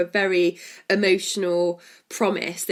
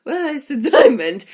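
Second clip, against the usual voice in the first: slow, much louder and higher mumbled growl of a question; mumbly Thanos; 6 semitones higher, 8 dB louder, slower than usual. Retold or imitated. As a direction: loom over him and mumble it menacingly. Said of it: "says it in a mumbly tone".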